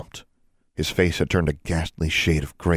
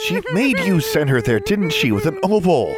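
high, insistent raised voice; raised, pressing demand; urgent accusation; 13 semitones higher, 4 dB louder than usual. A narrator's reading. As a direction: press the question over someone's wailing. Pressing question over the elf's wailing.

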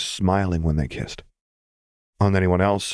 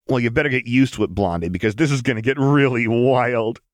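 fast, higher, cackling glee; fast giddy words with a cackle; through a cackle; 5 semitones higher, 4 dB louder than usual. Acted. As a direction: laugh it out wildly. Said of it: "said through a cackle".

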